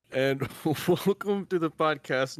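giggling through a formal welcome; cracking up mid-announcement; breaking character giggling. Real, not acted. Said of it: "Nope, I can't do it with a straight face".

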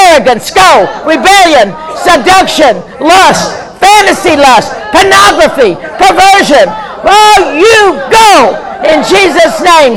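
rising, shouted commands, each spirit named then ordered out; preaching at full force. Acted. Pastor commanding demons to leave the congregation, forceful preaching shout.

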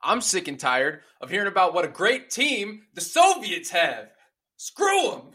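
rally the team; coach speech. Acted. Movie coach impression.

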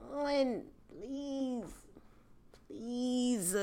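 soft, whimpering please; half-joking sad please; mock mournful plea. Real, not acted. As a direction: sigh it out like a loss. Mourning lost bottle.

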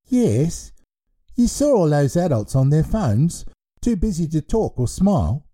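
put-on a cheerful baby in charge of a school; baby headmaster voice.

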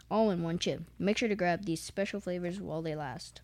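flat, grudging read of the bag; reluctant reading. Real, not acted. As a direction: read it out like a chore. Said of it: "Read something".

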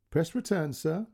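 careful polite dictation of numbers; a hint of an Indian call centre voice; call centre girl. Call centre girl's quote.

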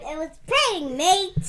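put-on British accent drifting to Australian; muddled British-Australian accent. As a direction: correct them in a mock Aussie accent. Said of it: "if you're speaking British or Australian".

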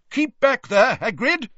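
loud warning yell, high and strained. A narrator's reading. Wizard yelling at Hagrid to keep back from the dragons. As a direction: shout a warning across the enclosure. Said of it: "yelled a wizard near the fence".

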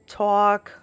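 New York vowel in "talk"; New York accent. Shown as a demonstration. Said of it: "certain words will come out".

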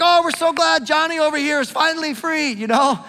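high, loud sarcastic delight; mock happy townsfolk. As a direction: gush like overjoyed locals, tongue in cheek. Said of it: "They're not happy. They're not like".

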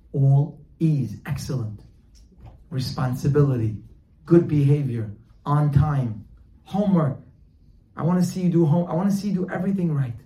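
loud, emphatic list; insistent fatherly demands. Acted. Father listing what he wants from his son, insistent. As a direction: hit each demand hard, building in pitch.

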